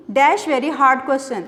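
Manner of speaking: very slow exercise read. Shown as a demonstration. Teacher reading the exercise sentence slowly to class. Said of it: "He asked me".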